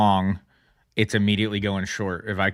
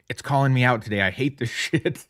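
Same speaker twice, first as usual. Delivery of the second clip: higher, a hint of mock outrage, slowing at the end; mock frustration; 4 semitones higher than usual. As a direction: grumble it half-laughing, higher. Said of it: "I'm like".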